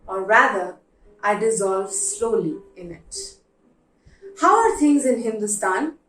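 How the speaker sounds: letter reading. Acted. Reads a heartfelt letter aloud.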